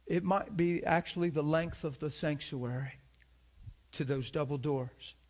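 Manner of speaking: ordinary delivery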